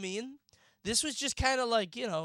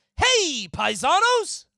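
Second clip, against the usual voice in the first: very high, very loud, bouncy, belted cartoon voice; 9 semitones higher, 10 dB louder than usual. Asked to do their best impression, the speaker gives a Super Show Mario impression. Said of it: "do your best Super Show Mario impression".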